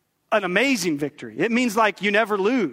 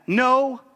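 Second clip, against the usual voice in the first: NO drawn out high and loud; a big emphatic NO, as if with an exclamation point; 6 semitones higher, 4 dB louder than usual. Shown as a demonstration. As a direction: hit NO hard, high-pitched and forceful. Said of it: "hear it like that".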